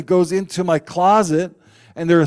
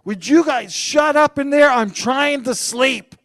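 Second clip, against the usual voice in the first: serious complaint; 11 semitones higher, 3 dB louder than usual. Retold or imitated. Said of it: "I was serious too".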